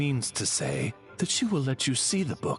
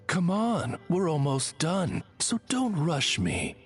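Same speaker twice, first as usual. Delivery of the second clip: higher, more coaxing delivery; friendlier rephrasing; 8 semitones higher than usual. Acted. Oz rephrases after sounding too cold, friendlier. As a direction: soften the brush-off with a higher lilt. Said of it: "Allow me to rephrase".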